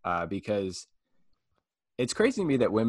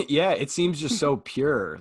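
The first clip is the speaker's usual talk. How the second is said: laughing; 5 semitones higher, slower than usual. Real, not acted. Laughing at own joke.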